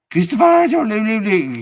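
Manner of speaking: put-on high, loud old German nana; German accent. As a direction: imitate a bedridden German grandmother. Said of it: "in a German accent".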